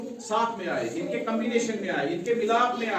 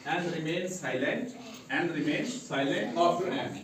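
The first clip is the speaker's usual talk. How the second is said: slow dictation; 2 semitones lower, 4 dB quieter, much slower than usual. Shown as a demonstration. Teacher dictating the rule slowly to the class. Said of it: "हमने यहाँ rule देखना है".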